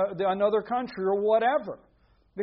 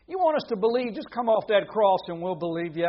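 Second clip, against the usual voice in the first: lightly acted taunt, raised and loud; mocking crowd; 5 dB louder than usual. Crowd jeering Jesus on the cross, mock taunting.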